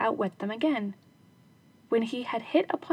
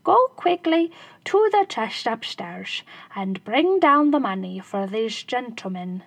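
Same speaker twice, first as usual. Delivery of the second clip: mock-urgent call; 5 dB louder than usual. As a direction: shout to the wife across the house. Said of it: "he cried to his wife".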